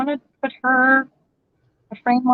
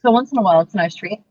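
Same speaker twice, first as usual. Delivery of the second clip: chewing fries while talking; mouth full; 3 semitones lower than usual. Real, not acted. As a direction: talk through a mouthful. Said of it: "talk with my mouth full".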